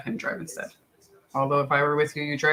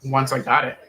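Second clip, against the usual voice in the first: mouth full. Real, not acted. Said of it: "I'm talking my mouth full".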